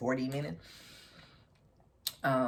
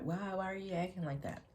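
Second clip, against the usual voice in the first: higher, softer mock whine; weird pleading voice; 7 semitones higher, 4 dB quieter than usual. Ex at the door, pleading in a lightly mocked whine. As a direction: repeat his strange question, half-mocking. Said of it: "You know, just weird".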